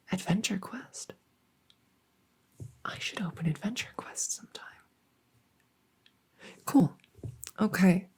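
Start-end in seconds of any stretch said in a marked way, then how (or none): 0.1-4.6 whispered aside. Real, not acted. Muttered aside to self.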